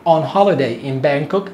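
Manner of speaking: slow, drawn-out On holiday in Bangkok; each word given time for learners; slow demo. Shown as a demonstration. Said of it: "تعال نسمع".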